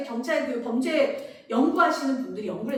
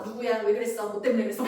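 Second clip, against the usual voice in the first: interrogating parent; 3 semitones lower than usual. Retold or imitated. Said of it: "이렇게 취조하시잖아요".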